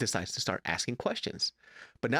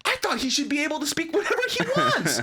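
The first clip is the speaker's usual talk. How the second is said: heavy sarcasm; 6 dB louder than usual. Retold or imitated. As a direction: throw mom's words back at her, mockingly. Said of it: "sarcastic as fucking Korean".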